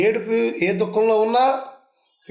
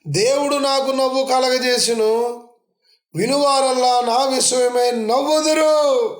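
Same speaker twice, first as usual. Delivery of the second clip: Sarah's joyful words; 3 semitones higher than usual. Retold or imitated. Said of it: "Sarah ఇలా అందట".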